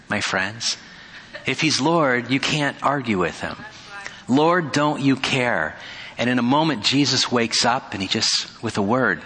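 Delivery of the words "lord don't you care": slow, drawn-out desperate plea; pleading plea. Retold or imitated. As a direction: stretch Lord out like a frightened cry. Disciples' cry repeated, drawn out.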